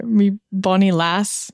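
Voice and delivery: slow, unsure Scottish accent; a hint of bad Scottish accent; attempted Scottish accent. Shown as a demonstration. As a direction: repeat a shaky attempt at Scottish, drawn out. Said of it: "I can't do a Scottish accent".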